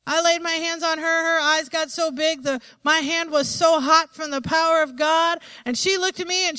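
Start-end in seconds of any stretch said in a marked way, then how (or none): none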